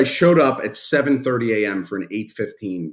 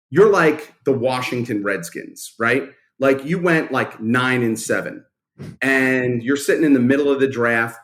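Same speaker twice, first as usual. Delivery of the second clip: raised, fired-up pitch with some punch; retold sales pitch; 2 semitones higher, 3 dB louder than usual. Young salesman pitching his own hire to a publisher, fired up. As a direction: sell yourself hard to the boss. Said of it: "I gotta go for it".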